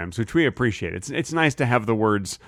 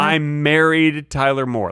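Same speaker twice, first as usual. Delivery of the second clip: "married" drawn out and stressed; 2 semitones higher, 3 dB louder, slower than usual. Shown as a demonstration. The speaker clarifying his phrasing, stressing "married". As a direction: lean on "married". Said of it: "Like, if I married someone named".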